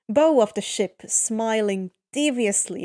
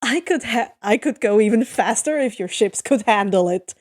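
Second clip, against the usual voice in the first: smirking boast; 6 dB louder than usual. Acted. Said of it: "who just smirks back".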